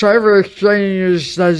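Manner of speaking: loud, distorted mock voice; mimicking weird talk. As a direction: imitate someone's silly way of talking, exaggerated. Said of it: "He's been talking like this".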